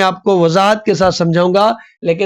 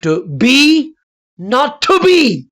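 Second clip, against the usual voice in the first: "To" short and light, "be" drawn out higher; unstressed then stressed; 5 semitones higher, much slower than usual. Shown as a demonstration. Teacher demonstrates stress with Hamlet's line, weak then strong. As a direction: lean on each "be" after a light "to". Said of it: "फिर ज्यादा देना है".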